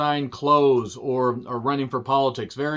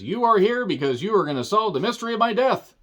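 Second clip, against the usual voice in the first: Miles Braun; 8 semitones higher than usual. Acted. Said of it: "Edward Norton says".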